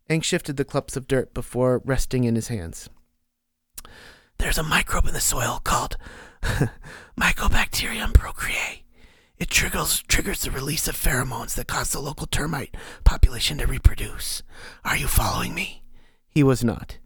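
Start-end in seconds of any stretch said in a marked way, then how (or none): 4.4-15.8 eerie unvoiced whisper of a hidden mentor; whispering inner voice. The mysterious voice counsels Ank, eerie whisper. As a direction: breathe it like a voice inside his skull.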